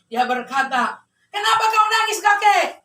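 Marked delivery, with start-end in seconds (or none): 1.3-2.8 higher, lightly acted genie; genie's voice. Genie asking the weeping old man, lightly acted genie voice. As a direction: call the question out like a storybook genie. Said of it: "Waktu muncul jin, dia berkata".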